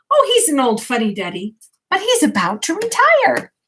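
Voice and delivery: lightly voiced field mouse, rising high; a hint of the little mouse gossiping; mouse character voice.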